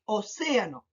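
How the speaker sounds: océano with the second syllable, CE, stressed. Shown as a demonstration. Teacher demonstrating for pupils, CE stressed in océano. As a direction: lean on CE in océano. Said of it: "marco más la palabra en C".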